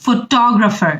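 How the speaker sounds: ফটোগ্রাফার with the weight on টো; stress on second syllable. Shown as a demonstration. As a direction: hit the টো in ফটোগ্রাফার. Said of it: "টতে stress বেশি". (টো অংশে জোর দিয়ে ফটোগ্রাফার)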